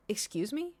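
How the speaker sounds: imitating an affronted, formal landlord; professional but aggressive. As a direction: politely confront them, with an edge. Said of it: "he sounded so professional but aggressive".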